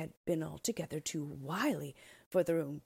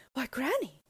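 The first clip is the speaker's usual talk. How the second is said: put-on high, surprised little girl's cry; a startled child gasping at granny; wondering exclaim; 7 semitones higher, 4 dB louder than usual. Little Red Riding Hood, startled at the bedside, exclaims in wonder. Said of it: "she exclaimed wonderingly".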